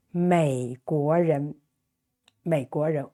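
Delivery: 美国人 said slowly and low; slow model Mandarin. Shown as a demonstration. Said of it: "teacher models the sentence".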